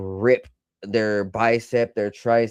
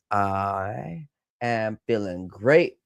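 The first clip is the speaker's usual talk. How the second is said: sarcastic; slower than usual. Real, not acted. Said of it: "I'm being sarcastic".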